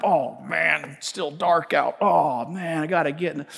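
mock sleepy grumble. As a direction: sound like dragging yourself out of bed. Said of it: "the times that I've gotten up".

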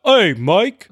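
cartoon character voice. Friend imagines Dickens talking to him, cartoon character voice. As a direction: put on a silly cartoon Englishman. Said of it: "He has a cartoon character voice".

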